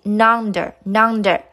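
"nonder" as one joined word, n leading; linked pronunciation. Shown as a demonstration. Teacher showing students the link, "nonder" repeated as one word. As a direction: say "nonder", under with an n carried in front. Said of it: "连在一起".

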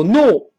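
no said with a plain, abrupt n; wrong n sound. Shown as a demonstration. Teacher showing what to avoid, no with a plain n. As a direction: say no without sliding into the n. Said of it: "不要读".

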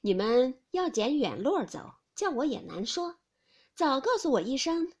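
mild scornful scolding; cold laugh. Acted. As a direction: chide him for the detour. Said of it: "凤姐冷笑道". (凤姐冷笑数落)

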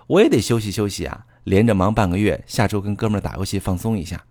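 acted boyfriend with a touch of impatience; mildly impatient. Boyfriend putting off his girlfriend's question, mildly impatient. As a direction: brush her off, mildly fed up. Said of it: "男人就会不耐烦地说".

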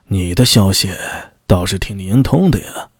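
low-pitched, knowing remark; a hint of a superior's dry amusement; lightly voiced magistrate. Magistrate remarking on his officer's sources, lightly voiced and knowing.

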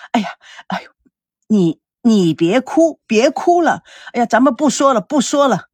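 flustered. Acted. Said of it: "慌了".

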